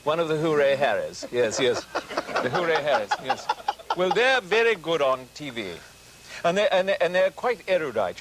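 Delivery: posh Hooray Harry. Acted. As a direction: play a chatty Oxford toff.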